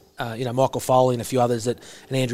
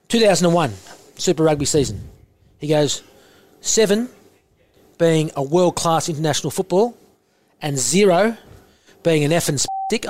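imitating coach Eddie Jones; 3 semitones higher than usual. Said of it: "I'll go in and out of his voice".

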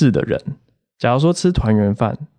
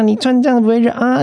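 high mock doorman, 这 leaned on, rising at the end; nosy doorman; 12 semitones higher than usual. Mimicking the building manager fussing over clothes, high and questioning. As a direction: pitch it up and ask 你穿这样不会热啊 like a question. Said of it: "他每次看到你都要寒暄个几句".

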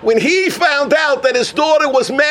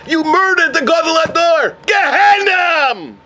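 thundering condemnation; 6 semitones higher than usual. Acted. Heavenly voice condemns a man who gave up, high relentless accusation. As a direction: pass sentence in a raised, relentless voice.

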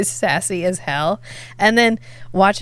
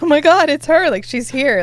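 starstruck; 7 semitones higher, 4 dB louder than usual. Retold or imitated. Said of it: "I was like".

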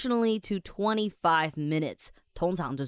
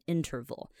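interval run together fast, IN- still stressed; interval, quick and clipped together; said quickly; 6 dB quieter than usual. Shown as a demonstration. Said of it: "你就要把它念快一点".

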